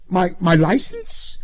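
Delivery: high, stammered question; dazed repeating. A narrator's reading. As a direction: repeat it as if hypnotized by authority. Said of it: "Pruskin repeated, hypnotized".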